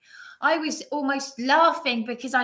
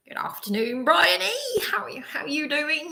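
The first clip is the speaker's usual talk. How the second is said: a posh, whispery Mister British greeting, pitched higher; Mister British impression; 6 semitones higher than usual. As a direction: put on a prim British gent greeting a colleague. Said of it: "I'm gonna do an impression of John Bartlett".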